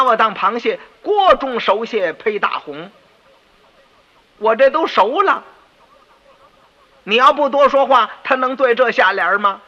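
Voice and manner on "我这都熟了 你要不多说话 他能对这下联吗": louder, higher, furious at the servant; angry scolding. Acted. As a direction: chew out the useless servant. Minister furious at his servant.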